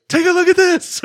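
high, loud hammed-up shout; mock yell. Host imitates Nicolas Cage yelling, in a high hammed-up shout. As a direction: yell it like a crazed man. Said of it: "while yelling".

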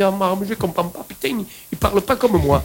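exclamation d'incompréhension, voix plus aiguë et plus forte; perdu et agacé. Retold or imitated. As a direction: imite quelqu'un qui ne comprend rien au dialecte voisin. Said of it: "On dit".

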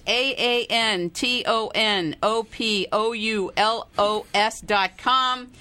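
slow letter-by-letter spelling. Shown as a demonstration. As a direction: spell each letter out slowly.

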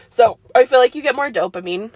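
talking around a burp. Real, not acted. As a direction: burp slipping through the words. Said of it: "sorry for the burpiness".

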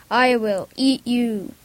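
slow, lightly voiced lumbering ogre; dim slow booming giant. Ogre threatens in boy's story.

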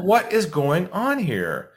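bewildered. Retold or imitated. Seller realizing buyers lie, slow baffled question. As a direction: drag out the disbelief. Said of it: "I was like".

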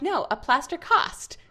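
mimicking a little girl's British accent, slow; a child's slow British "plaster cost". Mother imitating her daughter's British accent. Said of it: "she was doing a British accent".

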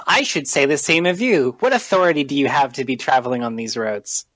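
mildly scornful challenge; scoffing. Acted. Warrior challenges strangers met on the road, scoffing. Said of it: "he scoffs at you and says".

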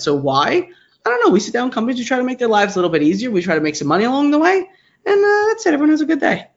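New York accent creeping in, pitch lifting at the sign-off; real New York accent surfacing as the answer wraps up. Real, not acted. Guest wrapping up a long answer to the host, New York accent. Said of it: "You went really New York at the end as well. Your accent".

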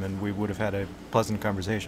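soft whispered aside; whispering. Real, not acted. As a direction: whisper it to the mic. Trailing joke, voice drops.

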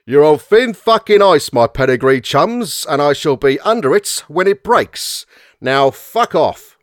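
put-on threatening Cockney accent; proper Cockney. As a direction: menace them in Cockney, slowing on the last words. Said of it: "That's a proper Cockney accent".

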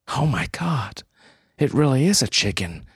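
high, fast astonished cry; surprised. Acted. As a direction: gasp it out in disbelief. Hope sees the chicken.

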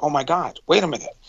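realizing there are two of them; surprised. Retold or imitated. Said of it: "they were like".

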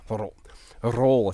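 "Roll" with a clumsy trilled R, bad Russian accent. Shown as a demonstration. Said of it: "It sounds like a bad Russian accent".

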